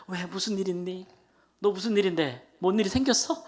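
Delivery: retold alarm at a friend's news; alarmed questioning. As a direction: fire off anxious questions, building. Retells his alarmed phone questions.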